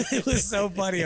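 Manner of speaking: laughs high through the words; cracking up at the memory; laughing. Real, not acted. Coach laughing while telling the crying story.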